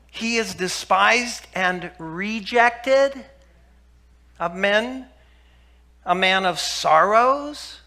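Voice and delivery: slow, solemn Bible reading; measured, reverent recitation of Isaiah; scripture reading. Acted. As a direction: lay each phrase down slowly and gravely. Reads Isaiah 53 aloud.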